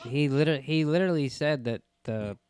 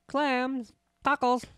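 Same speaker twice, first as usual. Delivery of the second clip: high mock voice; 13 semitones higher, much slower than usual. Listing items in mock voice.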